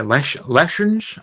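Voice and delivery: "lessons" repeated as a questioning "leshonsh"; Sean Connery. Retold or imitated. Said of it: "what am I, Sean Connery?".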